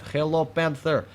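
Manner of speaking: playful taunt. Pretend. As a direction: taunt the enemy like a creepy playmate. Taunting enemy tank playfully.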